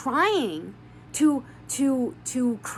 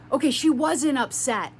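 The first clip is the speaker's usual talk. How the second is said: retold exasperated yell, only a little raised; mild mock yell; 4 dB louder than usual. The sister conceding she wasn't upset, mildly mock-yelled. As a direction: imitate her yelling without really shouting. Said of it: "as she's yelling".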